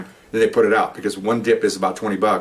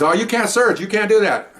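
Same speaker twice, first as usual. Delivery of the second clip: much higher, mock indignant protest; imitating protesting woman; 11 semitones higher, 3 dB louder than usual. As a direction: squeal her protest up high.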